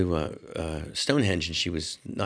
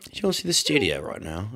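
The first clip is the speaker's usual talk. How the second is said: bad English accent. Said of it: "the worst English accent in the world".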